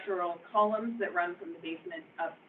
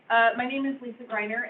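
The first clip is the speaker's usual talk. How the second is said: teacher voice; 2 semitones higher, 6 dB louder than usual. Real, not acted. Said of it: "so I'm gonna use my teacher voice".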